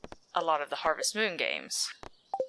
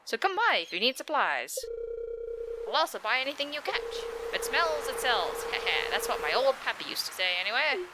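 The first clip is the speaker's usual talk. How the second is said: Willy voice; 4 semitones higher than usual. Acted. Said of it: "the voice I gave him".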